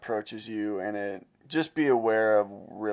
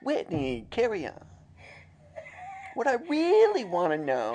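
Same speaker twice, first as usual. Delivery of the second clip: radio host voice; 13 semitones higher than usual. Pretend. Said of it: "Ew, I do not like that one".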